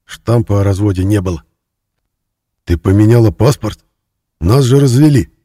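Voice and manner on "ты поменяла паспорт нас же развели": louder, higher alarmed; can't believe your eyes; a man sees no divorce stamp, loud and shocked; shocked disbelief. A narrator's reading. Shocked at the passport.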